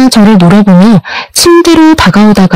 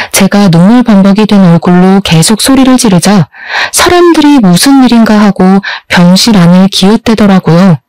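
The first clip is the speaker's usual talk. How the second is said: ordinary delivery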